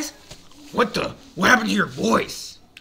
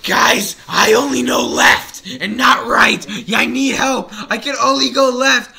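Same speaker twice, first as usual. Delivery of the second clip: mock panic; 3 semitones higher, 5 dB louder than usual. Character pleads for help.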